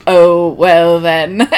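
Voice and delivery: slow, drawn-out pleased reply; mock charmed man. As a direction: drawl it like a smitten suitor. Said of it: "And he's like".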